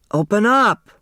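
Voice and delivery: loud, high "Open up!"; shouted demand. Acted. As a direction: bang on the door and yell. Turtle banging on door.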